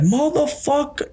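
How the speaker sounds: high, slow outraged Italian father yell; angry Italian dad. Retold or imitated. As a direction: bellow it like a furious Italian dad. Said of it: "pure Italian".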